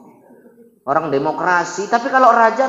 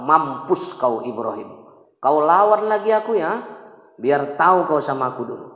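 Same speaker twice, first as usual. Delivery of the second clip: gloating king; 4 semitones lower, 4 dB quieter than usual. Acted. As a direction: sneer at the burning foe. Namrud gloats.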